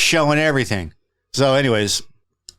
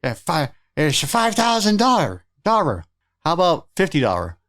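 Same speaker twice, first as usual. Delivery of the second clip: high mock broken-English haggling voice; lightly voiced pushy street vendor; mock haggler; 5 semitones higher than usual.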